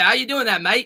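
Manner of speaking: clumsy, bad put-on Australian accent. Speaker talks to someone who lives in Australia, in a bad Australian accent. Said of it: "That is probably not an Australian accent, but I tried my best".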